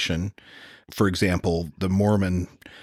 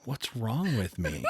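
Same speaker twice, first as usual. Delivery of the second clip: laughing at his own slip; 2 semitones higher, 5 dB quieter, slower than usual. Real, not acted. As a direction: chuckle through the words. Laughing at himself.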